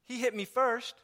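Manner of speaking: put-on a child blaming a sibling; whiny child. Preacher mimicking his children, tattling whine. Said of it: "my children saying it".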